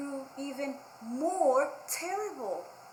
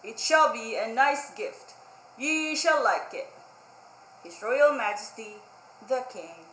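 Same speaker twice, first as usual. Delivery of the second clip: a hint of a grand herald reading; lightly voiced royal announcement; royal proclamation; 7 dB louder than usual. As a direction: read it out like a pompous decree. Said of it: "and it says".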